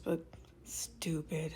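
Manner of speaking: "stupid" drawn out slow and soft, "stuuupid"; stretched-out stupid. Shown as a demonstration. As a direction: stretch the oo in "stupid" long and low. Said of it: "Stupid with a bunch of O's".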